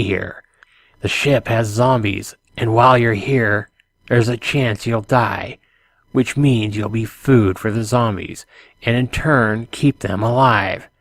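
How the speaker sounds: put-on measured nighttime radio announcer with a light French accent; emotionless French-accented man. Man warns intruder off zombie ship, emotionless French-accented voice. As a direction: deliver the warning poetically but without emotion, lightly French. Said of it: "middle-aged and emotionless, like a nighttime radio announcer".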